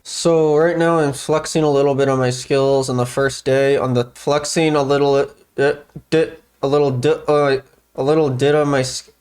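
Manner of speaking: ventriloquist lips barely moving; talking through teeth. Shown as a demonstration. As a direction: keep your jaw still and talk. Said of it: "see, it's hard".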